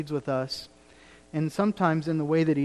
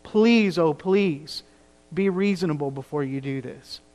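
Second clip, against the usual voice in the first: imploring. Retold or imitated. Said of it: "He's imploring them".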